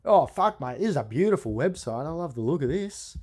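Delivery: high, loud, amazed mate voice; impressed tradesman. Retold or imitated. Owner gushes over the caller's website, high and loud. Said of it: "I'm gonna do an impersonation".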